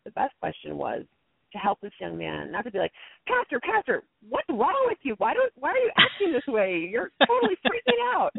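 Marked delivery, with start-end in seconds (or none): 3.3-8.3 high, loud mock exasperation at the pastor; exasperated scolding. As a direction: play the unhelpful, frustrated mediator. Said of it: "You know, not helpful".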